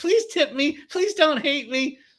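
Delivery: very high, syrupy, near-tearful pleading, acted. Describing overly nice wait staff, imitating syrupy pleading. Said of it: "syrupy nice wait staff ... on the verge of tears".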